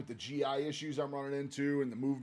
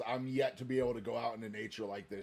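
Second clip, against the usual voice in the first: softer and softer, longing to be back in nature; fading wistful hush; 8 semitones lower, 8 dB quieter than usual. Real, not acted. Hiker missing the wilderness, fading wistful murmur. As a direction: let it fade to almost nothing.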